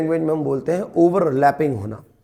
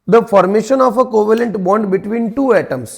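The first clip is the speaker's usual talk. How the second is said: slow dictation; 3 semitones higher, 5 dB louder, much slower than usual. Shown as a demonstration. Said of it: "dictating definition to students".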